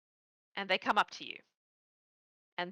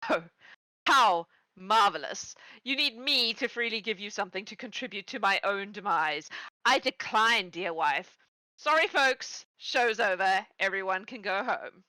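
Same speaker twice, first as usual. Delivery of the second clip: victorious gloat; 2 semitones higher, 3 dB louder than usual. Acted. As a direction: crow over your rival like you've already won. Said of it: "he laughs, victorious".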